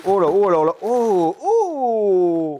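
loud, drawn-out oohs of amazement; amazed. Real, not acted. Vlogger opening the intriguing parcel, amazed. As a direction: let the "oh" swell and stretch in wonder.

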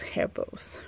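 "hair bows" whispered as an aside. Real, not acted. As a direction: breathe "hair bows" toneless, almost to yourself. Muttered afterthought while unpacking.

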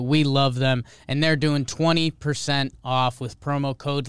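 loud, pumped-up sponsor pitch; excited ad read. Acted. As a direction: sell it like a hype man.

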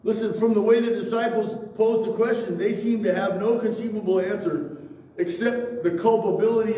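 emphatic preaching. Real, not acted. Pastor arguing about the blind man's guilt, emphatic preaching. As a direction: drive the argument home to the congregation.

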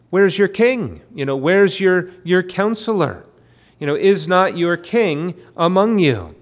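mildly challenging questions. Acted. Prophet confronting people about their missing king, mildly challenging. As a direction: lightly voice a prophet's challenge, pitch lifted.

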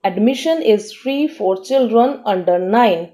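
slow, careful dictation pace; teacher reading an example sentence very slowly. Shown as a demonstration. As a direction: read it out slowly for learners to follow. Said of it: "इसका meaning है प्रवेश".

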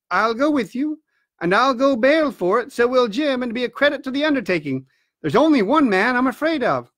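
steady doctor pledging support; doctor character. Acted. Doctor answers squire.

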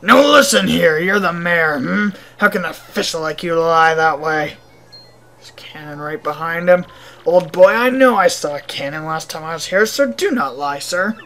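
lightly voiced huffy gentleman, firm opening; indignant old-boy gentleman. Visitor accuses the mayor of lying, mildly indignant. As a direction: confront him with mock-gentlemanly indignation.

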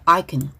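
"can" unstressed after "I"; weak can. Shown as a demonstration. Teacher showing students auxiliary "can" said weakly. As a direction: keep "can" light and reduced. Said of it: "can 약하게 발음해".

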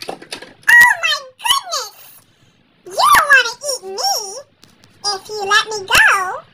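nervous goat talking fast with laughs; a goat bargaining for its life; pleading goat. Acted.

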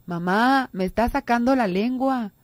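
put-on a light child voice telling on a sibling; tattling child. Child complaining to mother about his brother, whiny tattle. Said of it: "desde chiquito".

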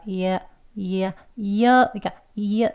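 이야 falling to an open 아; 이야 with the jaw dropping; 이야 ending on a weak 아; ending demo. Shown as a demonstration. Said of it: "아 소리에 가까운 발음".

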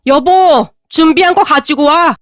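heavy, firm call to his wife; a grave order with weight behind it; weighty command. Acted. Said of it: "목소리에서 엄청난 무게감".

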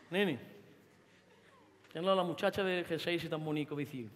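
a mother hissing a quiet warning; hushed scolding aside. Acted. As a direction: scold under your breath so nobody hears.

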